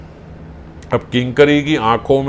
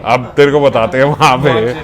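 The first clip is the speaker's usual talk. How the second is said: mild threat. Acted. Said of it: "ऐसे धमका रही है".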